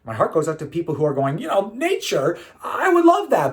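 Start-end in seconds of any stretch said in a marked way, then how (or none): 1.4-3.5 imagined wistful protest. Retold or imitated. Voices people who wish for nature.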